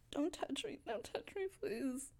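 small and scared, pleading; soft frightened plea. Acted. Woman begging strangers not to touch her, soft and scared.

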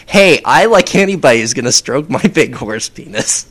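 lightly campy effeminate voice; effeminate unicorn. Pretend. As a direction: say it as a cheeky, effeminate character. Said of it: "effeminate and".

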